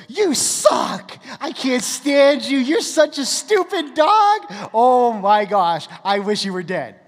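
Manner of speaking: high, loud, drawn-out gushing at a dog; sing-song, over-the-top delight for a pet; gushing dog talk. Shown as a demonstration. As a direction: coo insults as if they were excited praise. Mean words in gushing dog-praise voice.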